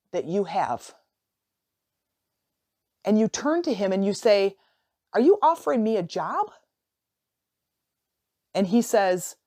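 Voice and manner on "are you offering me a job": higher-pitched incredulous question; tentative, surprised asking; mild surprise. Acted. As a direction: ask it in lightly acted disbelief. Acted astonished reply to stranger.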